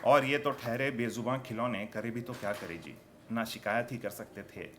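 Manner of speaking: subdued, measured narrative verse; poetry recitation. Acted. Poet tells of voiceless toys at night, subdued recitation. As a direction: tell it in verse, letting lines sink.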